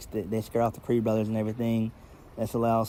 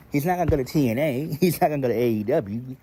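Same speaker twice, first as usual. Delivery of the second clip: laughing scoff; 3 semitones higher, 3 dB louder, faster than usual. Real, not acted. Mocking the idea, laughing.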